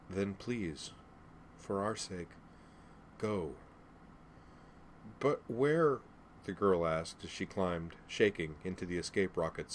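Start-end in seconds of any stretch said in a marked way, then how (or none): 0.1-3.5 gentle plea. Acted. Mother pleading with daughter to escape. 5.2-6.0 put-on high, worried girlish voice; anxious child's question. Daughter climbing into the escape pod, anxious question. Girl asks as she climbs, shaking.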